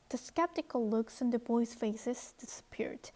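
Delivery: very slow, deliberate English read-aloud. Shown as a demonstration. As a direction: read each word slowly for learners. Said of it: "reads the English text slowly".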